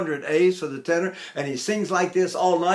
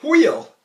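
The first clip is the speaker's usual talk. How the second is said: high wheel sound; 9 semitones higher, 5 dB louder than usual. Shown as a demonstration. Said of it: "What do I do when I come back down?".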